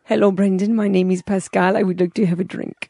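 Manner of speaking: lightly attempted French accent; a hint of a hammed-up French accent. Shown as a demonstration. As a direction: try a tipsy-party French accent on request. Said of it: "do your French accent".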